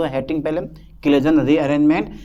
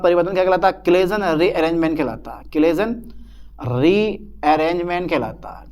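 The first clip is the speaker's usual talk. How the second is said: dictation. Real, not acted. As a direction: stretch it out for note-takers. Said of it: "मैं theory लिखवा दूँ".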